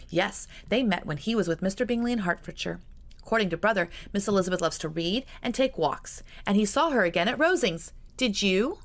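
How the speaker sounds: lightly voiced eager girl; young sister. Georgiana voiced by narrator.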